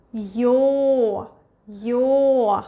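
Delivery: "Yo" said as the Russian letter Ё, slow and clear; sound demo. Shown as a demonstration. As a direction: draw out "Yo" like the Russian Ё. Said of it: "I'm going to point to the sound".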